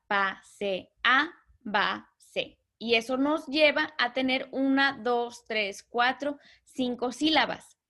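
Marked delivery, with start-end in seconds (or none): 0.1-2.6 "Pa, se, a, ba, se" said in slow separate beats; syllables split apart. Shown as a demonstration. Teacher to class, splitting the hiatus syllable by syllable. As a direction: clap out "Pa, se, a, ba, se" beat by beat. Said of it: "sino que se separa".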